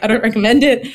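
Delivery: laughing through the words. Retold or imitated. Laughing warning to the host about her rushed baptism. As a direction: chuckle it out as a joke.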